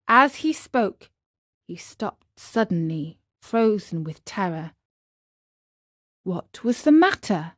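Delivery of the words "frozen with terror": usual speaking voice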